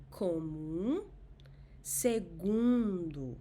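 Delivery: comum and segundo with nasal u, slow; nasal vowel drill. Shown as a demonstration. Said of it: "As in".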